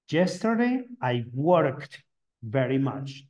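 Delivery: slow model answer, "worked" as "workt"; teacher's slow demo, "worked" in one syllable with final T. Shown as a demonstration. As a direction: end "worked" on a clear T. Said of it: "va a sonar como una T".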